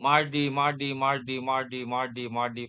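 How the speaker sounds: मार्डी as a teacher's drill word; French for Tuesday. Shown as a demonstration. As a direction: model मार्डी as a teacher would, syllable by syllable. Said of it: "जैसे Tuesday".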